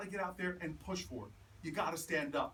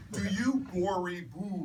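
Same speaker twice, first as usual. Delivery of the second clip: mock Biden joke line; 6 dB louder, slower than usual. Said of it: "I was sure Joe Biden was not gonna play it straight".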